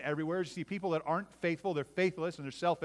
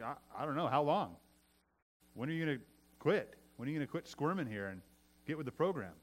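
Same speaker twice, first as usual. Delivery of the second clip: unmoved comeback; 4 dB quieter than usual. Retold or imitated. Answering people who complain of suffering, unmoved. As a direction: turn the question back, understated.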